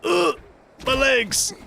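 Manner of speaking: very high-pitched mock yelp; mock pain cry. Player wailing about their legs in the game, high mock pain.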